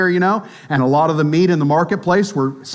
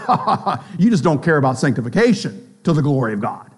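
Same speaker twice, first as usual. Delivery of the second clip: scornful fake laugh then quick jab; mocking laugh; 4 semitones lower, faster than usual. Weak believer scoffing at the strong, mocking laugh. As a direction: laugh them off, then rattle the charge. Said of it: "And the weak says".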